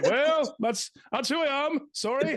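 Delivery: mock sheepish reply. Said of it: "It's like".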